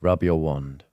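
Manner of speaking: low, slow, drawn-out Snape voice; mock Snape. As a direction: sneer it slowly like a stern potions master.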